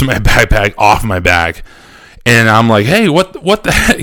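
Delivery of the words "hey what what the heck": much higher, indignant yelp of words; startled protest. Retold or imitated. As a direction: act out being caught off guard. Acted startled protest at backpack grab.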